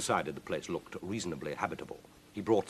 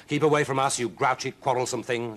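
loud, raised rebuff; shouted; 5 semitones higher, 5 dB louder than usual. Acted. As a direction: shout her away crossly. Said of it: "shouted one".

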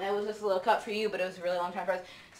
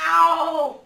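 pained yell; 8 semitones higher, 10 dB louder than usual. Real, not acted. Shot by airsoft pellet.

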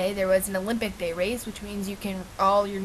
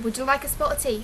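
put-on English accent; 4 semitones higher, faster than usual. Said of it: "start with our English accents".

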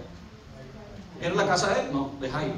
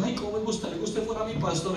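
higher, softer mimicked wish; gushing admirer imitation; 4 semitones higher, 6 dB quieter than usual. Pastor retelling someone wishing he were their pastor, mock-gushing.

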